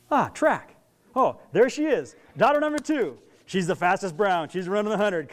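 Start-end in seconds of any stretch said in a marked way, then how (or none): 0.1-3.2 excited parent. Pretend. Parent excited at track meet.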